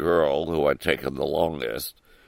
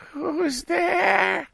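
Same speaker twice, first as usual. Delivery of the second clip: big wolf voice. Acted.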